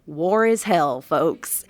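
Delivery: loud, declaimed to an audience; imitating an actor's big, booming ad-lib; improvised stage line. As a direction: project it out to the back row. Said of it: "improvised to the audience. He looks out".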